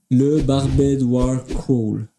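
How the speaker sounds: a slow, careful try at an English accent. Real, not acted. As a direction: sound out barbed war crawl slowly in English. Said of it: "Ouf, mon accent anglais". (accent anglais appliqué, lent)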